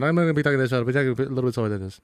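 rapid run-together mumble of words; too fast to follow. Shown as a demonstration. Host joking about a quick synopsis, too fast to follow. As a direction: race through it, words blurring. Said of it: "I was saying I was gonna talk slower".

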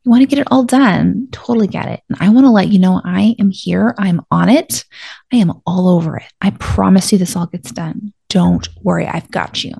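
gentle, comforting inner voice; reassuring voice. Shown as a demonstration. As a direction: soothe your own brain like a worried friend. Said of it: "So it'll sound something like this".

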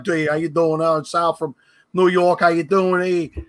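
imitating an old thick New York podcast intro; mock New York tough-guy accent; heavy New York accent. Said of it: "when I first started podcasting".

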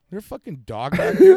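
loud call into the dark; imitating a cop calling out while searching. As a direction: shout to check the yard.

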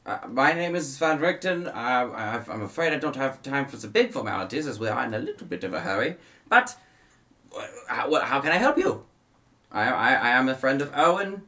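Van Richten. Acted. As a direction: introduce yourself politely but in a hurry.

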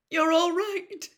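high, slow, dazed murmur of relief; distracted mutter. A narrator's reading. Mother to husband, dazed and relieved, high and slow. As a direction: say it half to herself, still stunned. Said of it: "Missus Weasley muttered distractedly".

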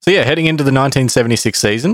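fast, hyped trailer intro; dramatic announcer voice. Acted. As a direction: launch it like a movie trailer. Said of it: "dramatic pronouncer voice".

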